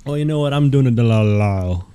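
mock London accent, sinking at the end; hammed-up fake Londoner; terrible British accent. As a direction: answer in a badly faked British accent. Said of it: "those are terrible accents".

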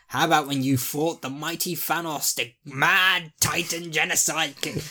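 mock-epic build, slowing on the title; hyped-up boast. Bragging in a bar about great victories, mock-epic. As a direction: build it up like a grand introduction.

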